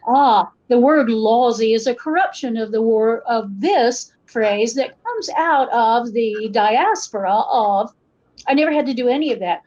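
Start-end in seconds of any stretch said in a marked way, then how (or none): 0.1-7.9 mock-scholarly regular American accent; code-switching standard accent. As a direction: explain it formally in careful standard American English. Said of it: "code switch back into my".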